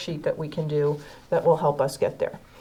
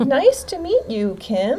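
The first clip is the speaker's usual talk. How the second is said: role-play greeting; 6 semitones higher than usual. Shown as a demonstration. Teacher role-plays greeting Kim.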